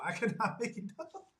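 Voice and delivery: real laugh breaking into the words. Real, not acted. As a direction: chuckle through the line. Amused by own stutter coincidence.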